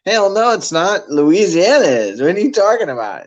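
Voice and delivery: high, indignant retort in a retold squabble; mock arguing. Retelling an argument with sister over the heat, mock outrage. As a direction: argue back in playful outrage.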